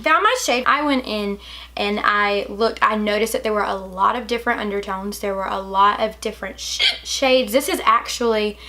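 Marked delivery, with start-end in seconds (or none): 5.2-8.6 talking through hiccups; words broken by hiccups. Real, not acted. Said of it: "sorry about my hiccups".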